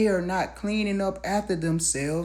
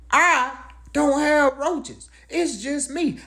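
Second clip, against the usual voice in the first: indignant; 6 semitones higher, slower than usual. Acted. Indignant denial.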